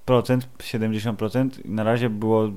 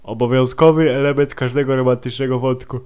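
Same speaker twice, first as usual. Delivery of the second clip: speaking through a yawn; words stretched by a yawn; 2 semitones higher than usual. Real, not acted. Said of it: "Przepraszam za ziewanie". (mówienie przez ziewanie)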